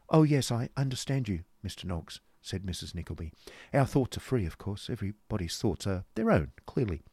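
lightly voiced garrulous lady; a hint of a prattling matron; chattering Missus Nickleby.

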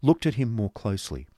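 plain reading voice

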